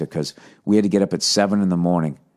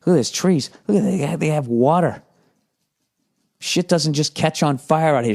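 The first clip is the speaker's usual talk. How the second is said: higher, wide-eyed marveling; envious awe; 6 semitones higher than usual. Retold or imitated. Marveling at Nebraska's space, higher envious awe. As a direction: gush over the space and the water. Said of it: "I was like".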